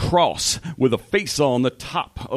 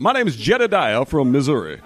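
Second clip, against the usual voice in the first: man's voice; faster than usual. Pretend. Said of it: "y'all know how my lady voice sounds".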